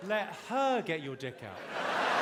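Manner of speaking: slow, calm correction after the yelling; measured, patient advice. Acted. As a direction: settle down and explain slowly.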